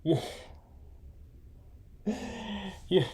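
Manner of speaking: hammed-up villain taunt; Bane impression. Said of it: "you're almost like Bane".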